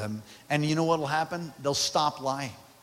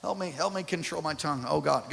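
quiet plea; 5 dB quieter than usual. Real, not acted. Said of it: "I'm so convicted reading this".

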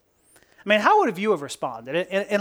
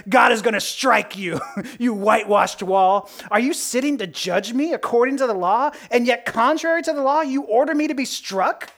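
fiery, indignant rebuke; mildly acted outrage, rising into the accusing questions; Paul; 3 semitones higher than usual. Paul rebuking the priest who had him struck, fiery. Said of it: "Paul's the fiery guy".

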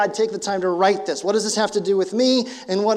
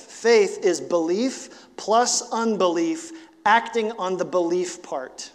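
slow deliberate; slower than usual. Shown as a demonstration. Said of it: "I'll say that again".

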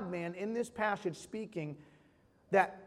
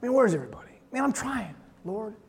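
complaining to God; 4 dB louder, faster than usual. Retold or imitated. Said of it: "sometimes I say".

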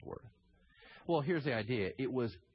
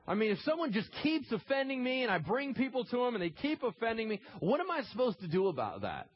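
higher-pitched, worked-up complaint; exasperated Peter; 8 semitones higher, 3 dB louder than usual. Retold or imitated. Peter asking Jesus about repeat offenders, exasperated. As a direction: imitate a follower fed up with offenses. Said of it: "Peter came up and he's like".

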